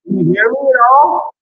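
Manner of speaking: muffled underwater sound; garbled underwater connection. Real, not acted. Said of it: "you sound like you're underwater".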